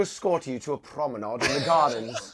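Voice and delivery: lightly posh British courtship; mock-formal old-fashioned British suitor; British Tinder suitor. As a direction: woo formally in a put-on British accent. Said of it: "if you're in the U K".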